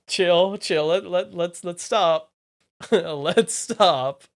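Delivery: loud pleading to stop; urgent calls to settle down. Real, not acted. Calming the chat down.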